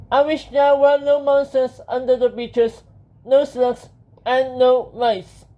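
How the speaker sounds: high, loud, careful wish; Benjamin. Acted. Hero making a careful wish to the genie, high and emphatic.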